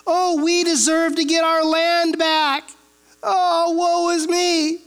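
mocking, slow whine of self-pity; whiny complaint. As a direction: whimper it like a sore loser, slowly. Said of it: "you know, they complain".

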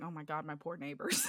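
laughing through it. Retold or imitated. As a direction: laugh while lamenting. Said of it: "I'm just like".

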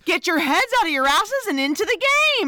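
fast coach's pep talk; halftime pep speech. Retold or imitated. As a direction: fire up the team, quick and pushy. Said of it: "Enjolras is like".

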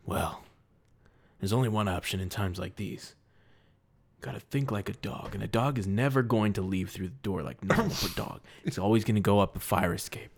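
1940s detective. Acted. Detective in character, low voice.

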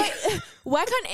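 high laughing whine, slowed right down; laughing mock whine. Retelling her old self to the co-host with a laughing whine. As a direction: laugh through a childish complaint. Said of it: "And I would be like".

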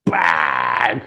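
sudden stretched-out burst; explosive bang. Acted. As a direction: blurt it like a bomb going off. Acts out distraction bomb going off.

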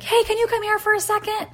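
very high call-out; retold yell. Calling the rake guy from the side yard, yelling. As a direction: call across the yard, acted out. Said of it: "and I yelled".

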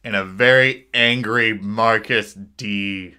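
slow, emphatic, simmering introduction; mildly angry. Real, not acted. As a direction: announce yourself with restrained anger, drawn out. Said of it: "I'm mad because".

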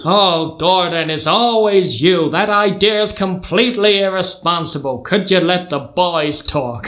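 weary American father scolding, words drawn out; American accent. Acted. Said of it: "gonna have to do an accent".

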